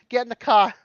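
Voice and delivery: Boston "cah" without the r; Boston accent. Retold or imitated. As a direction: echo the Boston line. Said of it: "experience with Bostonian".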